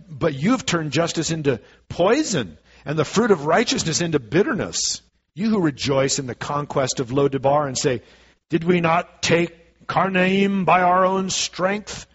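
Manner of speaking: measured, declaiming Bible reading; scripture reading. Acted. Preacher reads Amos to the church, declaiming. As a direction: read the prophecy aloud to the congregation.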